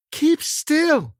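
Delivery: high, loud shout over machine noise. A narrator's reading. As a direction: yell it above the roar. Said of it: "she shouted above the noise".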